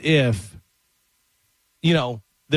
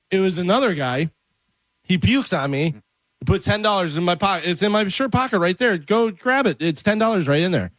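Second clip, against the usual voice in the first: high nervous voice; 6 semitones higher than usual. Acted. Husband explaining to wife.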